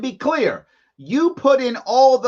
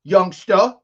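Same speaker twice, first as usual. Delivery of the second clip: stern dad warning; 4 dB louder than usual. Retold or imitated. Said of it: "That's what he's telling us".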